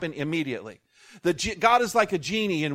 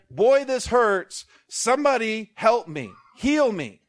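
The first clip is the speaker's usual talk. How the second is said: mock moaning victim; 3 semitones higher, 4 dB louder, slower than usual. Victim under piano calls out.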